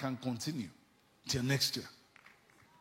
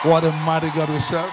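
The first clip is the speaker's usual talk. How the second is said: loud rising preacher shout; shouted praise; 12 dB louder than usual. Real, not acted. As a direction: proclaim it to the whole church.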